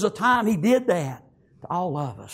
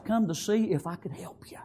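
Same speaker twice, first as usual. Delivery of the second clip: whisper; 3 semitones higher than usual. Retold or imitated. Friend's quiet words retold.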